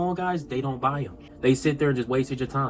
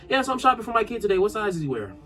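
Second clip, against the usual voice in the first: breezy parent customer, quick and higher; lightly voiced shopping parent; 6 semitones higher, faster than usual. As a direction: put on a hint of a chatty shopper.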